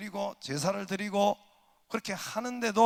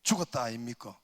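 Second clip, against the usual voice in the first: blunt Gyeongsang accent; mild Gyeongsang question; lightly voiced Gyeongsang dialect; 5 semitones lower than usual. Shown as a demonstration. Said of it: "경상도".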